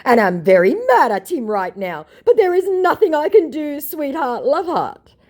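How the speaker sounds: very high, loud mock scammer, sugary endings. Mocking scammer's fake regret to her, very high. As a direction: oversell the fake lover.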